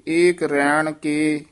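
ਏਕ ਰੈਣ ਕੇ as one group, then a halt; brief pause after ਕੇ. Shown as a demonstration. Teacher marks the phrasing, short halt after ਕੇ. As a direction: hesitate briefly once ਕੇ is said. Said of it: "ਇੱਥੇ ਠਮਕ".

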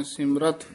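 ਸਿਮਰਤ set apart with a brief pause after it; ਸਿਮਰਤ lifted slightly, then a short break. Shown as a demonstration. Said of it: "ਯਮਕ ਲਾ ਦੇਣੀ ਹੈ".

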